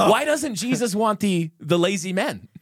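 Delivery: asking through a laugh. Real, not acted. Retries question laughing.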